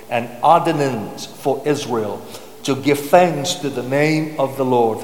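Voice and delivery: measured, deliberate psalm reading; solemn public Bible reading; scripture reading. Acted. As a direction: read the psalm aloud to a congregation, weighting key words. Reads psalm aloud to congregation.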